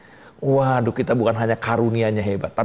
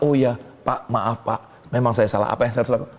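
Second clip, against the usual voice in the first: meek apology; 3 semitones lower than usual. Shown as a demonstration. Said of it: "Diam, malah".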